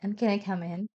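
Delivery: a hint of a quavering elderly lady asking for help; shaky old lady voice. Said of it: "a shaky old lady voice said".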